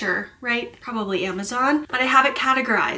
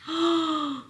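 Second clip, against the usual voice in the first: breathless whispered gasp of surprise; hushed, amazed oh my gosh; awed whisper; 5 semitones higher, 6 dB quieter, much slower than usual. Real, not acted. Unboxing a surprise gift.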